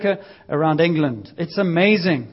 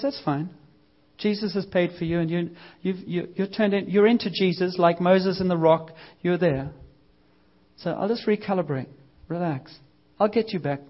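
softer, gentle mock reply; reassuring God; 5 dB quieter than usual. God gently reassures the sorry driver, softer and reassuring. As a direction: soothe them, nothing's wrong.

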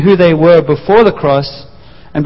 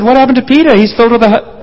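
astonished friends; 6 semitones higher, faster than usual. Retold or imitated. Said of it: "the other disciples said".

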